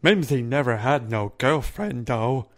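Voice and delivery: slow-witted, timid giant voice; scared simple giant. Acted. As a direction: drag the words like a big scared oaf. Plays timid giant Mimsy.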